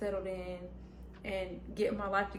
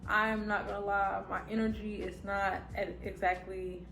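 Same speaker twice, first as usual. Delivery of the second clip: talking with retainers in, lisp; slight lisp from retainers. Real, not acted. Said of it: "I have my retainers in, so if you hear, like, a little lisp".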